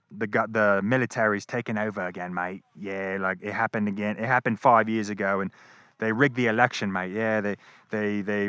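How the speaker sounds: a light, jokey put-on Australian accent; fake Australian accent. Retelling the Australian guy at the gate, lightly faked Australian accent. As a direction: lightly mimic an Aussie bloke's accent, mate and all. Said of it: "I'm gonna stop with the fucking fake Australian accent".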